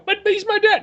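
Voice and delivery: high pleading boy's voice, hammed-up; whiny son. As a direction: plead like a kid. Son pleads in a retold scene.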